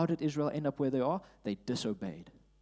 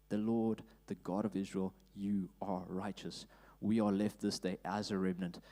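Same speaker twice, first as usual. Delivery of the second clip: prayer. Acted. Prays Ezra's confession.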